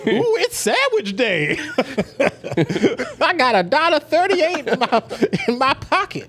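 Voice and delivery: high, giggling Nigerian guy voice; excited Nigerian accent, laughing through it. Retold or imitated. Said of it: "He does the voice".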